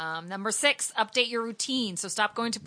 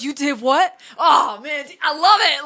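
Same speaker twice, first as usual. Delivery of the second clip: mock disbelief; 7 semitones higher, 10 dB louder than usual. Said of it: "he goes".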